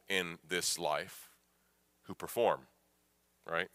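soft, searching sermon questions; quiet pastoral appeal. Real, not acted. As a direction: draw the listeners in gently.

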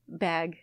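"bag" like "beg", drawn out; Milwaukee pronunciation. Retold or imitated. Quoting a friend from Milwaukee, "bag" as "beg". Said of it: "That's a Milwaukee thing".

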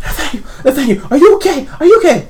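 high, urgent questioning; worried father. Acted. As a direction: play a frantic father checking on his child. Worried father calls to son.

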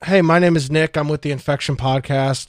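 muffled, as if through a mask; through a face mask. Pretend. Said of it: "hopefully you can hear me through this mask".

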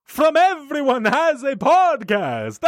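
slow, lightly hammed vampire voice; Dracula voice. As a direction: drawl it like a cartoon count. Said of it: "in that voice".

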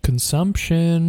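slow eerie whisper; spooky whisper. Pretend. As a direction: drag the word out in a ghostly whisper. Echoing the spooky word.

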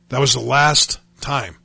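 "last time" drawn out slowly; solemn emphasis. Real, not acted. Telling listeners he quit drugs for good, solemnly emphatic. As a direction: weigh each word of "last time".

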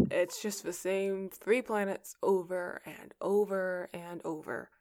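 ordinary delivery

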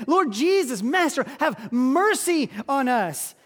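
crying out. Retold or imitated. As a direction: call out the plea, slow on master. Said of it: "they're crying out to him".

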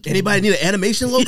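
rapid, lightly mocking sales pitch; spam bot pitch. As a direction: rattle it off fast like a spam ad. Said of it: "mocking spam accounts".

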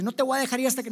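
P=A; mock wrestling boast. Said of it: "una llave ahí de lucha libre y que le dice".

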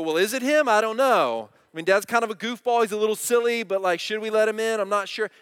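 mock the kids wondering whether to open the door; lightly voiced unsure kids debating behind the door; confused kids. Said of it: "so that they might get real confused and go".

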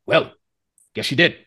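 ending in a high, loud shout; shrug, then bellow for drinks; giant calls for a round. Acted. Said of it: "the half giant go like".

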